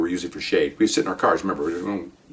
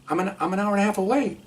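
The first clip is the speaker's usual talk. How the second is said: high-pitched retold protest; exasperated protest; 12 semitones higher, 3 dB quieter than usual. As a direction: plead it in a raised pitch. Protesting to boss on phone.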